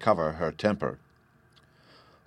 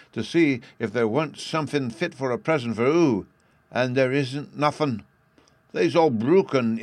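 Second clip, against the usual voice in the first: put-on sad little boy; 5 semitones higher, 4 dB louder than usual. Little Bruno's voice in story.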